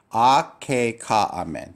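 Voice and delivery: "Ah, K, Ka, Amen" said in time with students; choral repeat. Shown as a demonstration. Teacher saying it with the class. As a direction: lead the class through it together. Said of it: "say this with me".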